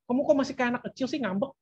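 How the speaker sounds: exasperated put-down, acted out; name-calling reproach. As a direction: imitate a parent belittling a sulky teen. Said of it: "Kalau kita langsung katain".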